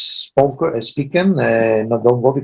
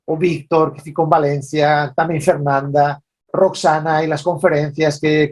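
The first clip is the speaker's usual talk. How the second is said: Spanish-Portuguese mix; speaking Portuñol, mixing Spanish and Portuguese. Real, not acted. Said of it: "let me start with a few words in Portuñol".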